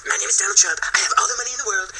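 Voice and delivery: high-pitched boastful politician parody; Donald Trump. Retold or imitated. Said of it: "And then it went from".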